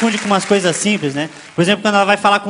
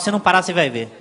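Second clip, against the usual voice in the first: low, quiet warning, sinking further at each ending; mock motherly threat; 5 semitones lower, 5 dB quieter than usual. Mother warning her child, low mock menace. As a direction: imitate a mother's threat, dropping low and soft.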